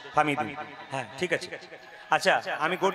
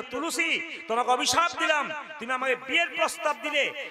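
mock curse; 2 semitones higher than usual. Ganesh curses Tulsi.

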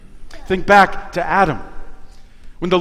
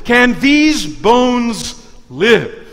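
slow, higher solemn question; voice of the Lord; 4 semitones higher, much slower than usual. Acted. Preacher voicing the Lord asking the prophet, slow and solemn. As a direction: ask it slowly, weighing each word. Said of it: "the Lord asks the prophet".

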